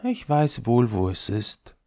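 lightly sighing toy top; mild sigh. Acted. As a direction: sigh it out, resigned. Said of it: "seufzte der Kreisel".

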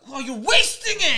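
high, loud, laughing call-out; scolding a friend while laughing; mock shout through a laugh. Noor scolding friend for wasting sauce, laughing shout. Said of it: "And Noor was like".

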